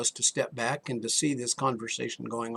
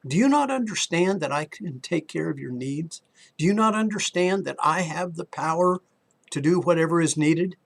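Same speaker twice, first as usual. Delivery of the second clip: building preacher's plea; 4 semitones higher, 3 dB louder than usual. Retold or imitated. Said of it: "He was saying to us".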